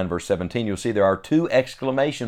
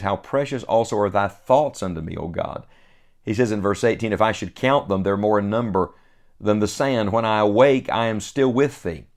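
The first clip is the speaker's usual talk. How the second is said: measured, solemn reading of King James verses; scripture reading. Acted. Reads verses seventeen and eighteen.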